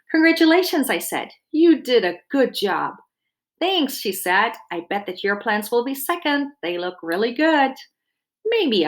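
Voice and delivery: lively picture-book read-aloud; reading to children. A narrator's reading. Dietitian reading a garden story to children, lively storytelling. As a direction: read it warmly to a class of kids.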